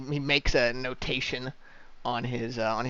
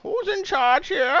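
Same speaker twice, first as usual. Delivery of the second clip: high, slow demanding guard; gruff dwarf guard; slower than usual. Acted. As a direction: demand an answer from the travelers. GM voices gate dwarf.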